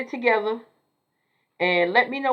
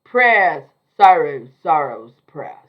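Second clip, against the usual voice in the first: Queen Charlotte quote; 6 semitones lower, 9 dB louder, slower than usual. Retold or imitated. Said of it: "In the illustrious words of Queen Charlotte".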